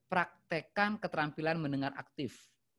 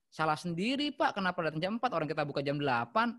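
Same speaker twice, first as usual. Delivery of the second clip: rude staff; 3 dB louder than usual. Shown as a demonstration. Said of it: "cara itu kan membuat hati orang kesal".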